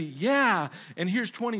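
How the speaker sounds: mock emphatic yes. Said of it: "the answer won't be emphatically".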